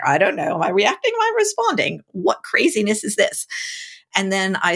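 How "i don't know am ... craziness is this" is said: baffled mock confusion. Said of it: "And I was like".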